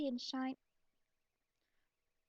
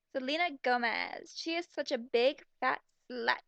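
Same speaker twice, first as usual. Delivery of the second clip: louder tone; 3 semitones lower than usual. Acted. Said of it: "Heather replied in a louder tone of voice".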